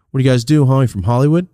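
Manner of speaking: sneering small-town cop; mock redneck cop. Fat cop mocking.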